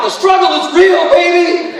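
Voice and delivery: high, loud laughing yell; playful scream. Retold or imitated. Fleeing prisoner yelling on the way out, laughing shout. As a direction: holler it while running out the door. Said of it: "You scream on your way out".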